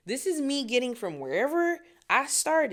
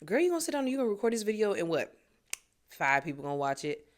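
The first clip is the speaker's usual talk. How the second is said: doubting inner voice; much faster than usual. Retold or imitated. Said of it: "this weird little voice".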